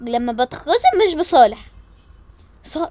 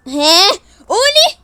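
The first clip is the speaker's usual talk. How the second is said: high plea; 6 semitones higher, 9 dB louder, much slower than usual. Acted. Pestering again.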